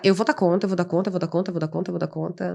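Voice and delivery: a self-talk chant that trails away; fading mantra. Retold or imitated. (mantra repetido cada vez mais baixo)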